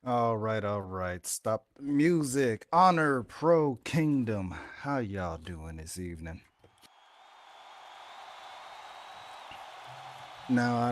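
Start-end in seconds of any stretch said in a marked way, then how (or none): 1.3-6.4 loud, slow wrestling-promo call; promo shout. Acted. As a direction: bellow it to the arena. Wrestler calls out to the crowd.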